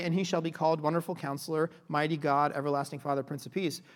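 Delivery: Wonderful Counselor said as one title; run together. Shown as a demonstration. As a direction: read the titles quickly, with no break between Wonderful and Counselor. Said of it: "you wouldn't say".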